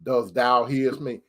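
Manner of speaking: deep, slow, quiet voice of God; a movie God calling his son, low and drawn out; Hollywood God. Acted. God calls Tony over as in a movie, deep mock-divine voice. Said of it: "God doesn't talk like that. That's Hollywood".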